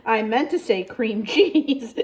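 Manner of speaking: laughing at her own slip; giggling through the words. Real, not acted. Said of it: "laughing at her slip".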